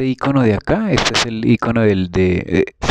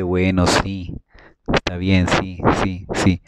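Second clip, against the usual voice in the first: resigned acceptance; 2 semitones lower, slower than usual. Retold or imitated. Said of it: "y luego uno dice".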